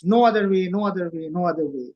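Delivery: "No other way" three times, stepping down in pitch; emphatic threefold repetition. Retold or imitated. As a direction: hit the first "No other way" hardest, then descend.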